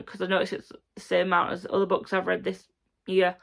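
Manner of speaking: hoarse, dry throat; croaky voice. Real, not acted. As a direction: speak through a croaky throat. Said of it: "sorry for the croaky voice".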